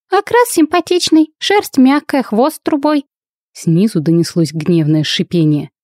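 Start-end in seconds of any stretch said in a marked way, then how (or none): 0.1-3.0 high, playful teasing voice. A narrator's reading. Winnie mocks the werewolf as a cat, high and playful. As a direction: tease him like a pet cat.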